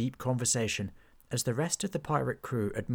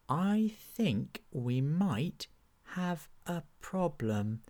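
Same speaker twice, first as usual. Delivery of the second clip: slow, higher uneasy understatement; worried Hobgob; 6 semitones higher, much slower than usual. Acted. Hobgob telling the knight about the pirates, slow and uneasy. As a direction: let the dread sink in slowly.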